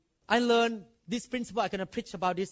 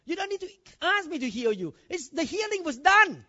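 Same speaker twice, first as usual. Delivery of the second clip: a touch higher, firm voice of God; mildly voiced God; 7 semitones higher than usual. God from heaven asking why they still beg, firm. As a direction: answer like God, a little exasperated. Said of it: "was looking from heaven and said".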